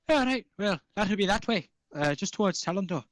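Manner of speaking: high gnome voice; gnome shopkeeper. Acted. Gnome shopkeeper points the way in a high voice. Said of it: "and goes".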